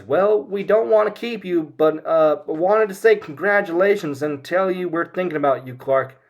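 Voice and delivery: high, loud folksy mom; mother saying goodbye on speakerphone, high and loud; Ma Kent. Retold or imitated. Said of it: "who says".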